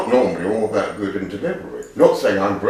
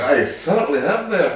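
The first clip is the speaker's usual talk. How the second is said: lightly put-on Scottish accent, amused; a playful touch of refined Scottish; Gordon Jackson; 4 semitones higher than usual. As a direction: lean into Scottish with a chuckle. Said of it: "very Gordon Jackson".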